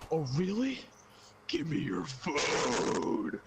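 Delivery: slow, drawn-out suspicious demand; lightly voiced stern mother; mock stern mom. Mom demanding the phone, mildly sarcastic.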